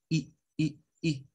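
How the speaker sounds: "I" as a very short lax vowel; quick separate bursts of "I"; short English I. Shown as a demonstration. Teacher drills the English vowel, short and quick. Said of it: "es rápido".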